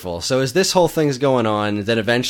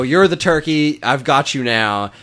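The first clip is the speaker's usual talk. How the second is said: louder, higher mock Swedish chef; 5 semitones higher, 4 dB louder than usual. Swedish chef corners the turkey, mock Swedish accent. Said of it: "Swedish chef voice".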